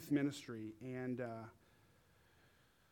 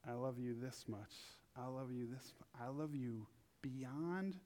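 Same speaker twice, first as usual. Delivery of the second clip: tender love. Acted. God's tender words to couple.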